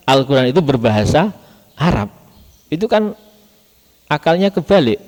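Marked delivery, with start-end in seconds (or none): 2.7-5.0 high, disbelieving exclamation; mock how upside-down their logic is; incredulous. Real, not acted. Teacher ridicules the accusers before students, incredulous and high.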